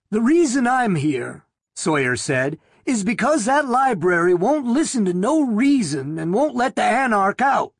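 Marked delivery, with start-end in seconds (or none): 0.1-1.5 higher, rasping thin man; nervous thin man, rasp it out. A narrator's reading. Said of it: "said in a rasping voice". 2.9-7.7 higher, rasping thin man; nervous thin man, rasp it out. A narrator's reading. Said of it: "said in a rasping voice".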